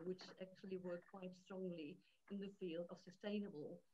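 faint, distant mic voice; barely audible. Real, not acted. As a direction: sounds far from the microphone. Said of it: "your voice is very faint".

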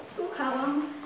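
ordinary delivery, nothing marked

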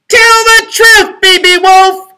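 very high, loud, slow squeal; oinking pig. A narrator's reading. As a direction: oink the words like a pig. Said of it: "oinked someone".

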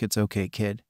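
soft, hushed comfort; gentle shush. A narrator's reading. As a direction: soothe him quietly, like calming a child. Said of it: "Anton gently shushed him".

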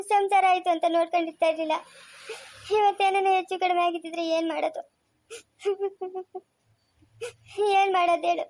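tearful, voice breaking with grief; crying mother. Acted. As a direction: plead through tears for her daughter. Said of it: "ಅಮ್ಮ ಅಳ್ಬೇಡ". (ಅಳುತ್ತಾ ದುಃಖದಿಂದ)

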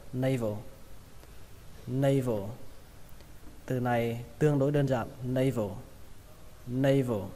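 "Navel" as NAY-vo, final L vocalised; nay-vồ reading. Shown as a demonstration. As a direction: say "Navel" in two parts, nay then vồ. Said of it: "Đầu tiên là nay". (đọc "Navel" thành "nây-vồ")

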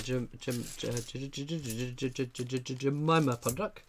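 stuck on the first sound, stammering it over and over. Real, not acted. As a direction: trip over the J until the name comes out. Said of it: "Had a bit of a fit there".

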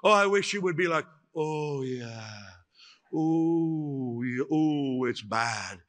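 lightly hammed-up fake sympathy, oohing; imitating a gushing comforter; a hint of cooing pity; mock sympathy. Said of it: "You say".

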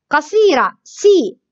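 سي said short as a quick si; short vowel. Shown as a demonstration. Teacher drills the short vowel in سي. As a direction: clip سي.

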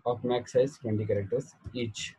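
slow dictation with long pauses for students to write. Real, not acted. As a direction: read each phrase slowly for note-taking. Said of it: "चला लिहून काढा". (सावकाश लिहून घेण्यासाठी सांगणे)

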